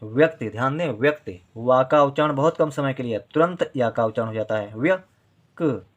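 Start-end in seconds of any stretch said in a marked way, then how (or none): 0.0-0.5 slow sounding out. Shown as a demonstration. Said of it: "teacher sounds out the word". 4.8-5.8 व्यक pulled apart very slowly; slow syllable demo. Shown as a demonstration. Teacher isolating a half letter for pupils, slow. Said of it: "का बहुत कम देर के लिए बोला जा रहा है".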